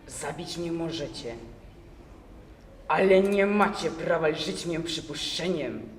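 indignant prisoner, voice catching in the throat; voice choking with emotion. Acted. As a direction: force the words out through a tight throat. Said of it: "głosem od wzburzenia więdzącym w gardle".

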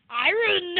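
loud, high imitating New Zealand accent; mock a New Zealand accent on iron. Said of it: "Your New Zealand accent makes you go".

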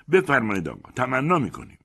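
high, mocking politeness; scornful triumphant courtesy; gloating best man. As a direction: sneer while showing him the door. Best man pushing him out.

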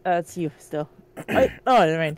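put-on brisk old-timey newsroom voice; 1940s reporter voice. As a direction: play a fast-talking 1940s newsman. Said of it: "Give him the nineteen forties reporter voice".

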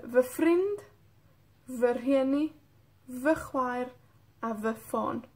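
"vefriend", "verhieni", "vechwaer", "vefon" with a clear V sound; careful Welsh pronunciation. Shown as a demonstration. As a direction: sound out the V before each word. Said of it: "quiero comentar algo sobre la pronunciación". (pronunciación clara de la V en galés)

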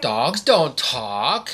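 slow, amused chuckle through words; laughing. Real, not acted. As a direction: laugh as you correct her. Laughing, slow reply to child.

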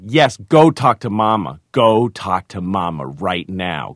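imitating a bossy child. Daughter ordering dad to see Mama.

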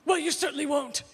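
lightly voiced haughty old lady; a hint of a cold society matron; snooty Barbara Walters. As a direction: cut her down with a dry sniff. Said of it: "she goes".

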